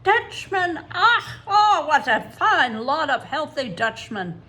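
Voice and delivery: high, loud, laughing gush; laughing, gushing circus man; delighted circus man. A narrator's reading.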